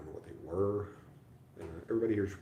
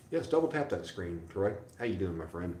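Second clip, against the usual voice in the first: cheery callout; 3 dB louder than usual. Real, not acted. Calls out to a viewer.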